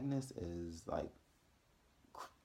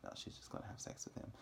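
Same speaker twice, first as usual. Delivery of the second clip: whispered, quick, much softer aside; a fast whispered joke; hushed aside; 7 dB quieter, faster than usual. Retold or imitated. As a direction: slip it in like a secret. Aside about the ghost's intent.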